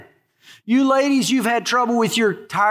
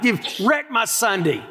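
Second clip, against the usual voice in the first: mildly peeved grumbling, pitched up a little; hammed-up resentful griping; mock fury; 3 semitones higher than usual. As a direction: play a put-upon volunteer complaining. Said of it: "furious about it".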